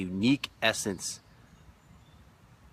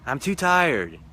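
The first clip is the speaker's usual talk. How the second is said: higher, mock weary whine; tired refusal; 7 semitones higher, 5 dB louder, slower than usual. Gentleman refusing his partner, mock weary whine. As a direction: whine it like you can't go on. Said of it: "And he's saying".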